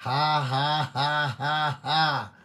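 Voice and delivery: staged joyful laughter; holy laughter. Acted. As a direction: laugh it out on cue. Holy laughter in healing service.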